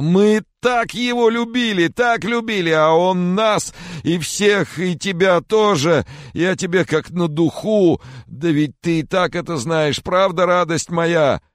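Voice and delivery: high, loud, slow sobbing wail; grief-stricken father sobbing on Sophie. Acted. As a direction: weep every word out. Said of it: "с рыданиями".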